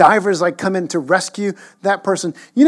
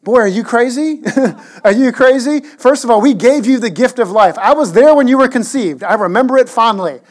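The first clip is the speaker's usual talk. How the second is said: indignant parent; 4 semitones higher, 5 dB louder than usual. Pretend. Parent scolding the smug son.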